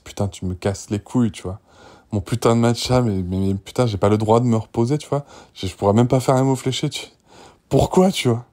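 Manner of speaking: plus fort, exaspéré, jurant; colère retenue. Retold or imitated. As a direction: vider son sac, à bout de nerfs. Rant he wanted to say. (énervement imité, voix qui monte)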